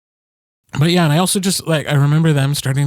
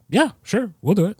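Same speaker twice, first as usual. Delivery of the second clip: upbeat reply; 8 semitones higher than usual. Retold or imitated. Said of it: "they were like".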